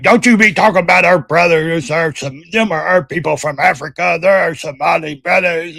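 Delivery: retelling the angry panel guy's protest in a mild mock voice. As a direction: lightly voice the offended panelist. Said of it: "And he's like".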